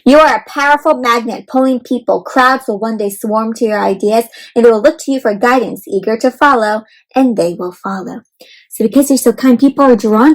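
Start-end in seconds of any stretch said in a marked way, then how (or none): 0.1-8.2 gentle storybook read-aloud; reading to children. Acted. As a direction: read it like a picture book to kids. Reads picture book aloud.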